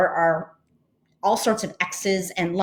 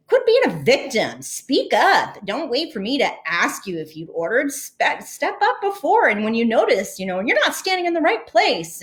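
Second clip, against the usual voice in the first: higher, lecturing and indignant; imagined angry retort; 6 semitones higher than usual. Retold or imitated. A woman rehearses in her head the angry comeback she never said, pitched high and scolding. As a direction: tell him off the way she'd imagined in the line. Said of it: "angry thoughts back at him".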